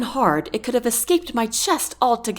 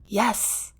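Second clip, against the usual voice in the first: whisper; 6 dB quieter than usual. Acted. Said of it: "I whisper".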